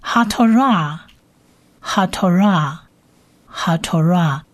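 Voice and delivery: "haTorah" slowly, drawn out on the last syllable; spaced teacher repeats of "haTorah"; slow pronunciation drill. Shown as a demonstration. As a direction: model "haTorah" for learners, pausing between repeats. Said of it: "律法".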